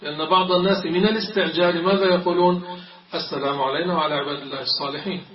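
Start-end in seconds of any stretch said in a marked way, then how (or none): 3.1-5.2 fast tashahhud, علينا rushed with no alif; hurried recitation. Retold or imitated. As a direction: gabble it like a rushed worshipper. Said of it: "هكذا يقولون مستعجلين". (تقليد المستعجل بسرعة)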